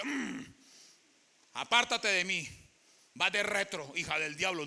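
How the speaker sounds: mock a harsh God casting her out; mock condemning God. Preacher mocking a condemning God to a woman, stern and loud.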